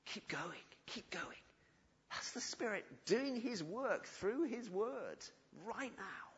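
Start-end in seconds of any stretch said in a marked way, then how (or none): 0.1-1.4 gentle inner voice. Acted. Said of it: "the Holy Spirit ... saying".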